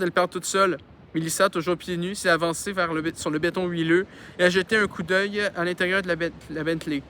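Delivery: reading a novel aloud; story narration. A narrator's reading. Reader telling a childhood story to listeners, narrating. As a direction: narrate it clearly, with lively phrasing.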